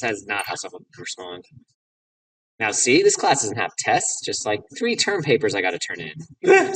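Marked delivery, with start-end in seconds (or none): 2.6-6.7 slightly raised game-character voice; a hint of breezy jock; lightly voiced college jock. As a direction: play the casual student handing off his homework.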